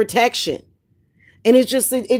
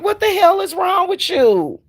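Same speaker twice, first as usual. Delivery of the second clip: mock outraged shout; 9 semitones higher than usual. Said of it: "you be looking at people like".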